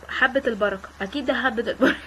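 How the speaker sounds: amused, words laced with laughter; laughing. Real, not acted. Gamer laughing at black seeds, laughing through the words. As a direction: laugh as she names the seeds.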